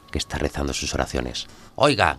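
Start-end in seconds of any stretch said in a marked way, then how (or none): 1.8-2.2 high, loud call through the wall; shouting. A narrator's reading. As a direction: yell at the neighbour to stop. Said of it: "grita Krasnukin". (Krasnukin le grita al vecino que reza)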